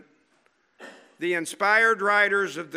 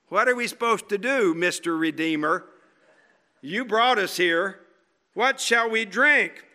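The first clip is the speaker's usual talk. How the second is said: grumbling complaint. Retold or imitated. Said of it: "You've got to get the right intonation".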